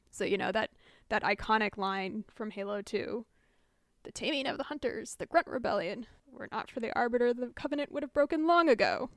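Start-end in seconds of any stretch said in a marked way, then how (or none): 4.0-9.1 lightly voiced solemn prophet; a hint of a grand preaching prophet; Prophet impression. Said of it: "That was a good impression".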